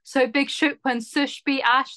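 put-on Essex accent, lightly melodramatic; a touch-indignant Essex accent. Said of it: "read it in the stylings of Essex".

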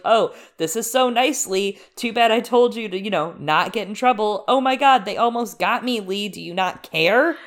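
mock yelling. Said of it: "She's yelling things".

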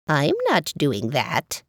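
bubbly gargling water voice. Acted. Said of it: "With his gargling voice".

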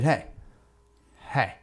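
a hint of a drunken hey; lightly voiced tipsy friend. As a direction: imitate a tipsy buddy's greeting. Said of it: "two and a half sheets to the wind".

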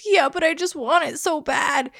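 put-on high, pleading little girl voice; whiny child. Mom voicing daughter refusing to give up the crib, high child whine. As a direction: whine it like a kid who wants her crib. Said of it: "She goes".

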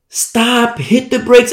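urgent, half-hearted yell; mock scream. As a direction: pretend to scream a warning, held back in volume. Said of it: "I scream as loud as I can".

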